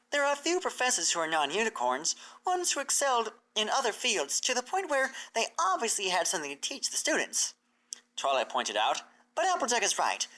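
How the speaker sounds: a knowledgeable mare pointing things out; Twilight's voice. Acted. Twilight explains.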